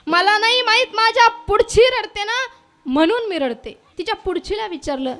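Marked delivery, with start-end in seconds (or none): 0.1-3.8 mock crying. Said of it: "तिनं रडून रडून सांगितलं".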